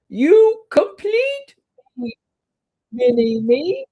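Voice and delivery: very high, loud, slow mock-weepy squeal; a squealed, teary-sounding declaration; high gushing coo. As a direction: gush like a doting parent. Gushing at Ryden, cry heard.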